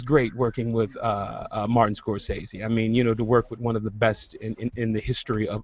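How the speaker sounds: hushed, soft voice; whispering on the phone. Real, not acted. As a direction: keep it down for the live broadcast. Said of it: "I have to whisper".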